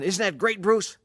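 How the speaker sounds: shouting over the engine, delighted; thrilled showing off. Retold or imitated. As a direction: Steve boasting to Bruce while speeding, thrilled. Steve boasting mid-slide.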